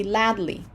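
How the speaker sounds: "ladly" as lad-ly, the D closing the first syllable; wrong syllable split. Shown as a demonstration. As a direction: misread ladle as "ladly". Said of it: "read it like that".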